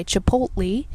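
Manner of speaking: Chipotle said as chuh-POTE-lee; grandmother's pronunciation. Retold or imitated. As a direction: Chipotle with a long final lee. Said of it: "as my grandmother would say".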